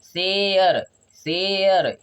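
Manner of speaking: long falling शेयर, vowel held; drawn-out vowel glide. Shown as a demonstration. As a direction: hold the AY in शेयर before the er. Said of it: "तो क्या आ रहा है". ("शेयर" खींचकर, गिरते सुर में)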